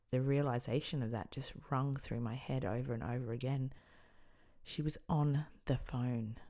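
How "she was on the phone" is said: stricken whisper. Real, not acted. Realizing she had been close.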